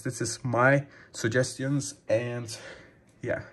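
breathless after talking long; winded, short on air; out of breath. Real, not acted. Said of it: "and I'm out of breath".

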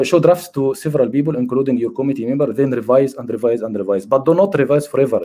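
reading the slide out slowly, word by word; measured lecturer reading from a slide. Acted. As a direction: read each English phrase deliberately to the class. Reads English slide text.

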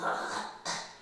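throaty, wordless Dutch G noise; mock the Dutch G from the throat; Dutch G imitation. Shown as a demonstration. Showing the funny sound Dutch makes for G, imitated Dutch G. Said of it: "it's just like".

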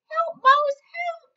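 very high, loud cry for help; cat calling for help. Acted. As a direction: plead with the mouse. Cat calls mouse.

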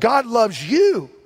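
slow, loud, high shout of God loves you; preached shout. Real, not acted. Pastor proclaiming to the congregation that God loves them, in a slow loud shout. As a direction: hammer each word out to the crowd.

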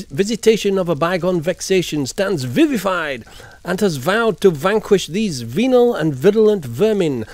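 V for Vendetta speech. Acted. Streamer reciting the V speech for chat, theatrical. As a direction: declaim it like a masked showman. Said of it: "there is a quote, and it goes like this".

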